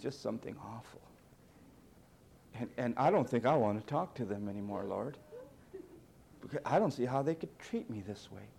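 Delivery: low, self-pitying whimper to the Father; mock whiny prayer. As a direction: play a sulking Jesus complaining to God. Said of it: "He didn't whine".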